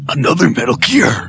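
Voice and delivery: rough whispered action-hero voice; Snake. Acted. Answering a call for a Snake impression, hoarse whisper. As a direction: whisper it like a grizzled game soldier. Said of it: "like, Snake impression".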